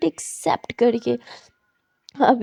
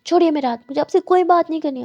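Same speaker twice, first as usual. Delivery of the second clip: angry refusal; 4 semitones higher, 4 dB louder, faster than usual. Acted.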